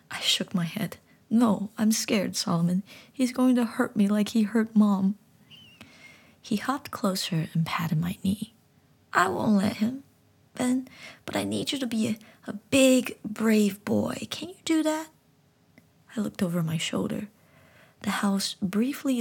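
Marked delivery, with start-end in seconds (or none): 1.3-5.2 put-on boy confessing fear to the frog; scared child. 9.1-15.1 talking frog gently explaining; high frog voice. Acted. Frog encourages boy.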